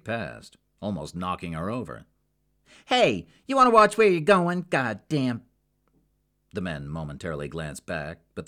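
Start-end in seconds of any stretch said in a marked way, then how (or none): 2.9-5.4 much higher, much louder yell at the men; angry shout. Acted. Woman knocked aside by two men, yelling after them angrily. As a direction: bark it after them, furious.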